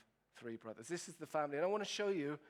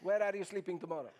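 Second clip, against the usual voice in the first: said through a laugh, fast; tossing the threat out while laughing; mock threat with a giggle; 3 dB louder, faster than usual. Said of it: "She laughs at me".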